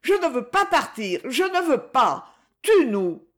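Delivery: high, strained despairing refusal; despairing outcry. Acted. Woman begs her captor to kill them, despairing outcry.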